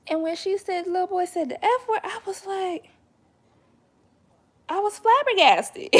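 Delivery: high, loud disbelief breaking into laughter; flabbergasted. Real, not acted. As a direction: pitch it up like you're still stunned. Retelling shock with laughter.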